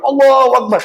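ringing imitation of a shouted takbir; loud takbir. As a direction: call out the takbir like a whole gathering. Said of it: "Saking kerasnya takbirnya".

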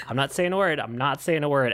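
a hint of a gossip talking from the side of the mouth; gossipy housekeeper. Host imitating a gossiping movie housekeeper, side-of-mouth aside. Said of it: "talking out the other side of her mouth".

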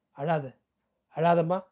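comforting. Acted. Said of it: "என்று தேற்றினான்".

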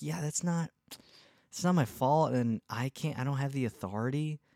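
high mocking voice of an unhelpful clerk; mocking whiny voice. Mocking people who shrug off blame, in a high whine. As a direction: whine it high to mock them.

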